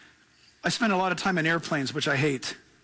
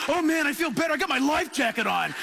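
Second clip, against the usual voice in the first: high, smug relief; mock relief; 7 semitones higher than usual. Pastor mocking trust in life jackets, high smug relief. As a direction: sound comforted, a bit foolish. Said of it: "we trust in the craziest thing".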